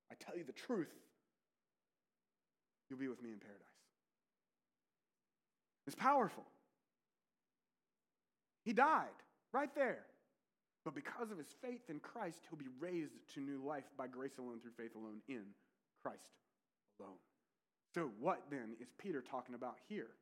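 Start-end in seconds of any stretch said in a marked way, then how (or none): 0.1-3.8 emphatic. Retold or imitated. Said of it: "emphatic even". 14.0-17.2 solemn refrain. Acted.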